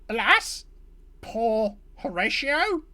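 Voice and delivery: hammed-up Shakespeare grief; mock tragic lament. Kenku mourning his fallen fellow, mock tragic. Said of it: "and says".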